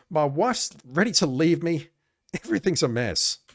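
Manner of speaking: a hint of a miserable cop pouring his heart out; mildly depressed Jack. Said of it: "Jack speaks in a very depressed voice".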